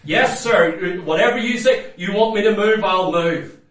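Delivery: lightly voiced cowed man; mock submissive. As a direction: say it like a beaten man giving in. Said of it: "submit to everything you say".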